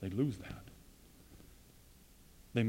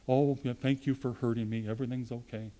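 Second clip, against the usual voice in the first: mock soft voice; 5 dB quieter than usual. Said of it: "oh, soft voice, always talk this way".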